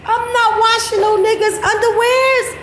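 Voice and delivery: real giggly refusal; laughing and adamant. Real, not acted. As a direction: insist it while still cracking up.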